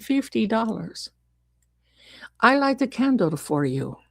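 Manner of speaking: lightly voiced psychic reading someone's future; gypsy fortune teller. Gypsy promising a client a handsome man, lightly put-on fortune teller.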